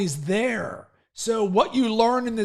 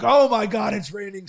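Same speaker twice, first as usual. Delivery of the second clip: retold excitement. Runner quoting himself welcoming a downpour, retold excitement. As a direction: lift "Oh my God" eagerly. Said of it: "I'm like".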